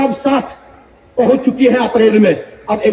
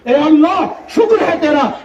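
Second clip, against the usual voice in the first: joyful thanks; 5 semitones higher than usual. Acted. Believer's joy meeting another believer.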